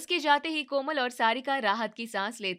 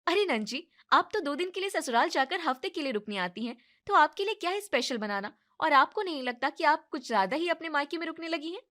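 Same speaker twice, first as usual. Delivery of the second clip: losing temper; 3 semitones higher than usual. Acted. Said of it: "भड़क जाती है और वो अपने गुस्से पर काबू नहीं".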